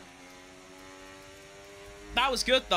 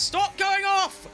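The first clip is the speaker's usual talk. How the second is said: drawn-out higher exasperated cry; slow, higher frustrated outburst; frustrated yell, higher and slow; 7 semitones higher, 3 dB louder, slower than usual. Real, not acted. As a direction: yell at yourself for going off track. Frustrated at own driving errors.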